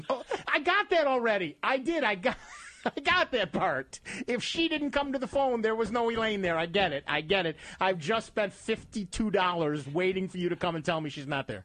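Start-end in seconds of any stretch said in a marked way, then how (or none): 0.1-7.6 higher, fed-up I-get-it protest; mock exasperation. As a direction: act out your frustration at the pointless phone call. Exasperated reply to French staff.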